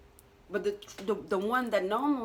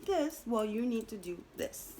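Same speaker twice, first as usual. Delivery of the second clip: Saturn; 2 semitones higher than usual. Acted. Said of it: "And Saturn's like".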